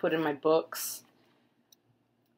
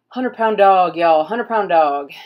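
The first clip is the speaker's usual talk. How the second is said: louder, punchy exclamation; emphatic exclaim; 8 dB louder than usual. Real, not acted. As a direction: stress the weight in disbelief. Exclaiming about heavy dog.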